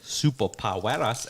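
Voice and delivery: "superpoweras" with a Spanish-style "-ras" ending; mocking mispronunciation. Quoting the ad that annoys him, mock-Spanish "superpoweras". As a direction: mimic the ad's fake-Spanish "superpoweras". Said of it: "every time they say it".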